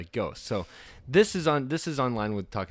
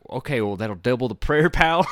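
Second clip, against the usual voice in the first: laughing mock believer; 2 semitones higher, 6 dB louder than usual. Prank caller voice in story.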